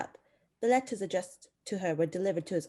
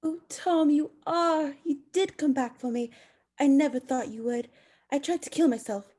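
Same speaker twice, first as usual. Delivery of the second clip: higher and louder, overwhelmed with relief; emotional; 4 semitones higher, 5 dB louder than usual. Acted. Mary overwhelmed at Tom's return, emotional cry. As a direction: pour it out to the returned husband. Bride reunited, emotional outburst.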